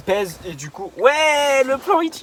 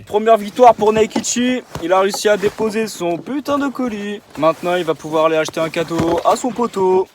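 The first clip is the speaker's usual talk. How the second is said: mock announcer; 3 semitones higher than usual. Vlogger narrating himself like a commentator. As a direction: announce his win like a commentator.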